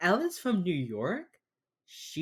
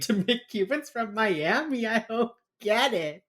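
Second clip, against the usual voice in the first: higher-pitched, exasperated bafflement; 7 semitones higher than usual. Real, not acted. Escalating exasperation over Cuban casting.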